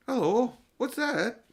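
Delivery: surprised. Acted. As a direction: catch sight of something odd and call it out. Diggory spots the guinea pig.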